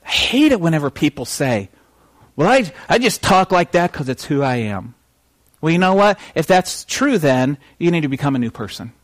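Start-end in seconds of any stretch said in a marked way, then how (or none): 2.4-4.9 put-on country voice; country accent. Preacher mimicking people who say it's who I am, country accent. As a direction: talk with a country twang. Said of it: "have to have a country accent".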